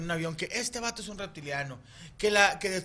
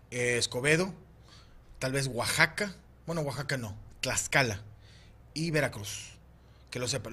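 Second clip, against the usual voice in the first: lower, deliberate alien commander; 4 semitones lower than usual. Acted. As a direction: speak as a pompous alien captain. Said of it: "estoy hablando como extraterrestre".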